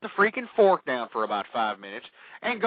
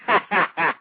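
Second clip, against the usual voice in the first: short laugh. Real, not acted. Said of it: "I'm just joking".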